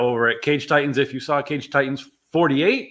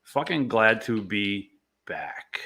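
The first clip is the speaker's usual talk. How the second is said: soft unvoiced whisper; 3 semitones lower, 6 dB quieter, slower than usual. Real, not acted. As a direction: whisper it close to the mic. Whispered aside.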